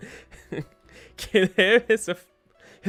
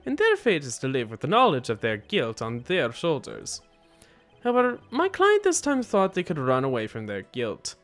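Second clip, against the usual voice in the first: put-on accented hitman character; 3 semitones lower than usual. Killer explains his client's guilt, accented character voice. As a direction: declare it as a formal accented killer.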